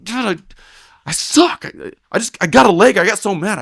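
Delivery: very high mock whine; distraught partner. Young roper admitting he got mad, high mock whine. Partner's upset excuse, retold.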